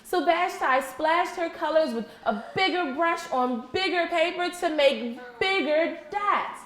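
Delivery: lively read-aloud to the class; story narration. Acted. Teacher reading a picture book to her class, animated storytelling. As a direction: read the story brightly to children.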